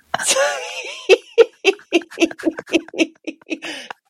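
squealing burst of laughter; high shrieking laugh. Real, not acted. Cracking up at a listener's email, high shrieking laugh. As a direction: let a high helpless laugh out.

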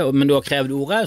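ordinary talk

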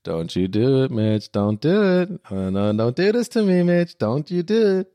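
leise flehend nachgespielt; beschwörend wiederholt; pleading replay. Retold or imitated. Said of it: "diesen schönen Moment mit Mitch". (flehend, gedehnt)

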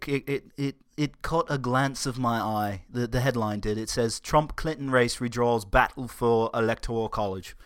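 lightly put-on British accent; casual mock-British news reading. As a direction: slip playfully into a British accent. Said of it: "I don't know why I'm doing British accents now".

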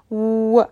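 rounded-lip "و" sound, like Arabic waw; English W sound. Shown as a demonstration. Teacher demonstrating the W sound to Persian speakers, rounded "و". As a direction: say "و" with rounded lips, teeth off the lips.

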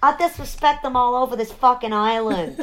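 hammed-up wife's scorn; scornful Queens wife. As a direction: spit back at the husband in Queens voice. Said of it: "I just like doing the voice".

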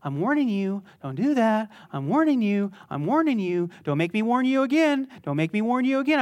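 repeating warning, half-hearted; a pushover parent's nagging; mock nagging parent. Mocking a pushover parent's endless warnings. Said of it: "hovering warning parents".

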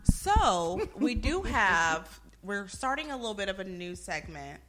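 hammed-up announcer voice; drawn-out, showy segment intro; exaggerated cartoon intonation. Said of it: "Why are you talking like that?".

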